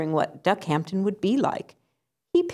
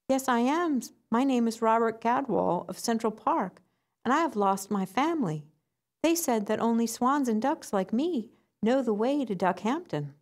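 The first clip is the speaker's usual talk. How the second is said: indignant duckling; 6 semitones higher than usual. Acted. Duckling insists to swan he is a Gadwall, higher.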